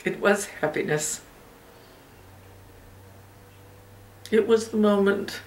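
soft, unhurried reverie with long pauses; reflective mother, wistful reminiscence. Acted. A mother tells her child of her happiest moment, wistful and hushed. Performs monologue from the Hours.

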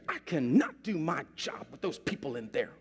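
imitated exasperated nurse; retold complaint with a touch of anger; mock-mad nurse venting. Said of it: "the nurse gets mad".

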